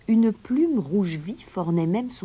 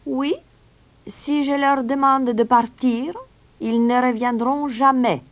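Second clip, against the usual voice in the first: high, loud, slowed stranger's voice; assured stranger; 10 semitones higher, 6 dB louder than usual. A narrator's reading. Stranger promises the rats will leave, affirming it in high voice. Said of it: "affirma l'étranger".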